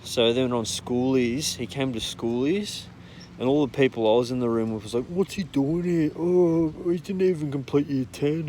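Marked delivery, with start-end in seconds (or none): 5.0-8.5 retold group disbelief. Mocking group reaction to unwelcome guest.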